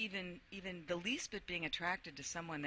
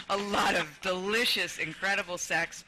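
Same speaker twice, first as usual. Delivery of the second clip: savouring; 2 semitones higher, 8 dB louder than usual. Real, not acted. Savouring repeat, louder.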